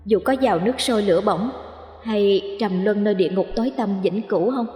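a lightly voiced ghost bride teasing her lover. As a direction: coo the question sweetly. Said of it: "Ả thẻ thọt".

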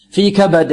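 في كبد with a bounced final د; qalqalah. Shown as a demonstration. Teacher recites the verse ending, qalqalah. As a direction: release the د of كبد with an echo. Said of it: "قلقلة في الدال".

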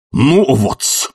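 high, emphatic angry cry; thundering. Acted. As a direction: thunder it indignantly. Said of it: "гремел Филипп Филиппович".

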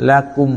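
ละกุม closed on a clear M; clear meem. Shown as a demonstration. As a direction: bring the lips together for a distinct final M in ละกุม. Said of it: "มีมให้ชัดเจน".

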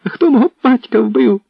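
high, loud, raging demand; a son screaming in fury at his father's killer; furious shout. A narrator's reading. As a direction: yell it at your father's killer. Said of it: "кричав Петро".

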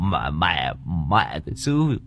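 high, indignant bluster; shrill-pitched angry tirade, building up; ranting old man. Acted. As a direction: puff up and rant like a wounded pride. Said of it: "ngoạc mồm".

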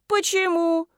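sharp high objecting question. A narrator's reading. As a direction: challenge him. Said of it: "заспорила Марина". (спорит, выше голосом)

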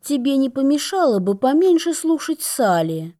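gloomy. Acted. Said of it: "хмуро проговорила она".

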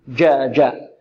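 clean جا, mid-tongue on the palate; correct jeem. Shown as a demonstration. Teacher demonstrating the jeem to students, pure and without d. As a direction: say جا with the tongue tip kept down. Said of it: "هذا في الجيم".

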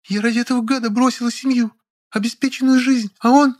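high female character voice, whiny; Lilya, petulant. A narrator's reading. Lilya pleading with the narrator, high and petulant. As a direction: play the pouting woman, pitched high.

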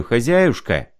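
a lightly voiced rambling old clerk, pitch rising; a hint of a muddled sick clerk bowing and explaining; mumbling old clerk. Sick clerk rambling thanks to the landlady, lightly voiced.

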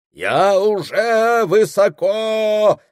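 high, slow, far-off voice; distant voice. Acted. Shaman speaks from his spirit flight, distant and slow. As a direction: sound as if from far above. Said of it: "заговорил он теперь далёким".

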